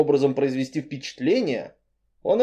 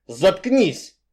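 getting angry; 6 semitones higher than usual. Acted. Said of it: "начал злиться любитель спичек".

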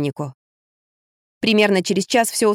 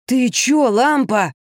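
mock wail; 4 semitones higher, much slower than usual. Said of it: "взвыл Кирюша".

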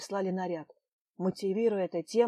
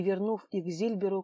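ordinary delivery

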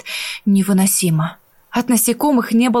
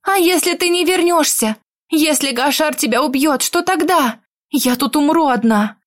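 higher, anxious pleading voice; panicked; 4 semitones higher than usual. Acted. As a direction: voice rising with worry. Panicked heroine fears abandonment. (испуганно)

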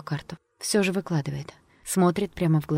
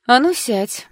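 sharp whispered order, higher; commanding fortune teller; 6 semitones higher, 7 dB louder, slower than usual. A narrator's reading. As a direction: hiss the command to sit. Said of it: "говорит гадалка". (властная гадалка, резким шёпотом)

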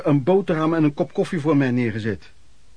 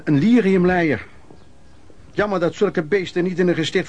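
contemptuous; 3 semitones higher than usual. Real, not acted. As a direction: bite out the insult with disgust. Contempt for drunken stepfather.

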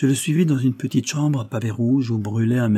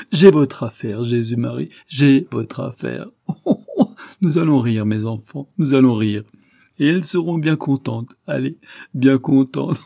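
high, loud cries between guffaws; violent laughter; 4 semitones higher, 6 dB louder than usual. A narrator's reading. Priest cries out his sudden idea, laughing violently. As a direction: roar it out, shaken by laughter. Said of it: "se mit à rire, d'un rire violent".

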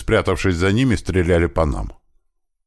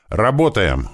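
higher-pitched, contained acted shout; shouted command; 4 semitones higher, slower than usual. Leader signalling his men to attack, contained shout. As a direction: launch the team with a raised call. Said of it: "крикнул я".

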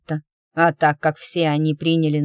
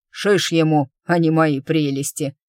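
barked retort; 4 dB louder than usual. Acted. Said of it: "а Бригитта рявкнула".

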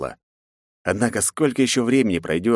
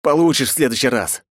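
angry snort; 4 semitones higher than usual. A narrator's reading. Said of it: "злобно фыркнул я".

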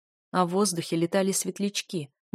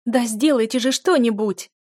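higher, louder sobbing cry; sobbing plea; 4 semitones higher, 7 dB louder than usual. A narrator's reading. Duchess begging the lords, sobbing harder. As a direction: sob out the demand. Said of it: "зарыдала пуще прежнего миледи".

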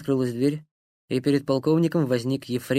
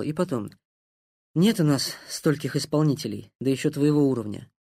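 level voice. Acted. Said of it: "ровным голосом ответил".

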